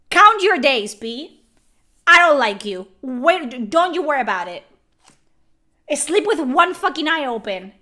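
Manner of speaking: mock threat.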